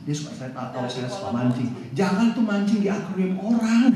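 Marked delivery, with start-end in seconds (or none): 2.0-3.9 mild mock telling-off; retold scolding. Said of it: "Terus saya diomelin". (omelan tiruan yang ringan)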